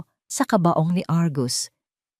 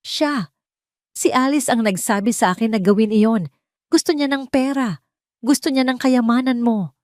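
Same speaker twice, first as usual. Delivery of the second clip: higher, frantic blaming; desperate accusation; 6 semitones higher than usual. A narrator's reading. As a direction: point the finger in panic. Argus accusing Alice. (galit na pagbibintang)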